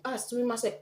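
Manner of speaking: a polite Japanese "Ah, sumimasen" with a falling end; Japanese greeting. Pretend. Tourist stopping a stranger, polite Japanese "sumimasen". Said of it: "you're walking up to someone and you're like".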